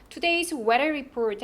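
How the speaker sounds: "Today's weather report" slowly, each key word stressed. Shown as a demonstration. Teacher models a weather report line, stressed key words. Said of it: "할 때 강세 들어가고요".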